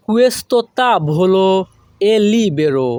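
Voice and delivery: slow, careful Italian; slow model phrase. Shown as a demonstration. Teacher modelling the Italian slowly for students. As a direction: draw it out for learners. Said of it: "model then broken".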